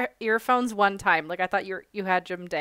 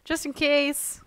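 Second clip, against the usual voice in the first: character voice; 6 semitones higher than usual. Acted. Character asks NPC for help.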